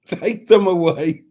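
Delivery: slow, loud, hammed-up camp comic drawl; Kenneth Williams. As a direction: stretch it out like a camp old comedian. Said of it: "Kenneth Williams would be a good voice".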